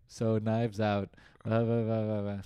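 slow, dragging mock of a sleepy voice; mocking low energy. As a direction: drone it like you can barely stay awake. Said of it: "you complete lack of energy".

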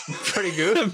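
slow, laughing mock British; drawn-out British imitation through a laugh; mimicked British accent. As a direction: echo it mockingly in British, laughing. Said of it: "I thought you said pretty good".

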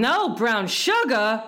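slow, high, loud complaint; put-out, indignant grumble; grumbling. A narrator's reading. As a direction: draw out the disappointed question. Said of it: "grumbled the wasp".

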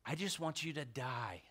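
breathy low whisper. Real, not acted. Preacher telling the church his aim, whispered. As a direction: drop to an unvoiced whisper. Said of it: "I'm not trying to yell".

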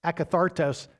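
akathartos said as ah-kah-THAR-tos; careful ah-kah-THAR-tos; pronunciation demo. Shown as a demonstration. Preacher sounding out the Greek akathartos, careful. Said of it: "I know that's probably not right".

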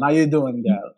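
put-on a light, joking American accent greeting; mock American accent. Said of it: "let me put my American accent on".

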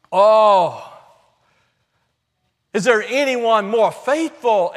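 emphatic rhetorical questions with stretched endings; fervent sermon appeal; impassioned preaching. Real, not acted. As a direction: press each question on the congregation.

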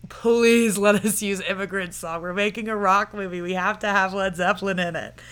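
mildly pleading imitation; a touch of begging. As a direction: plead a little, as if retelling an appeal. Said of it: "pleading video being like".

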